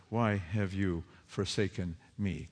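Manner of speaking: soft, low, hushed lament; quiet lament. Acted. Preacher voices everyone crying to God, hushed lament. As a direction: let it fall away, hushed and grieving. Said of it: "cries out what we cry out".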